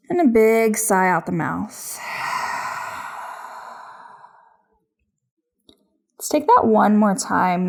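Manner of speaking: yoga instruction. Acted. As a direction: guide each breath unhurriedly, with long pauses. Leads a yoga practice.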